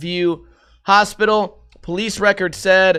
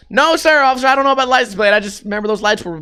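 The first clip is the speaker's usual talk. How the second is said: higher-pitched, hurried witness voice; flustered witness; 5 semitones higher, faster than usual. Acted. Witness protesting to police about the plate, flustered. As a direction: rattle it off like an earnest witness.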